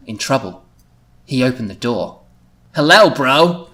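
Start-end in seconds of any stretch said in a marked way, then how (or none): 2.7-3.7 lightly put-on surfer greeting; surfer dude. The speaker greets his brother at the door, surfer voice. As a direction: greet him like a laid-back surfer. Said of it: "going for a bit of a surfer motif".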